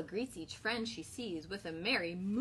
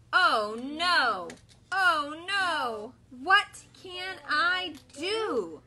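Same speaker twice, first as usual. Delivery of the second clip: worried cow; 6 dB louder, much slower than usual. Acted. Bella's lament read together.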